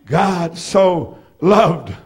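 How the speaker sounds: low and drawn out; slow solemn. Real, not acted. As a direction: savor it slowly. Slow repeated text.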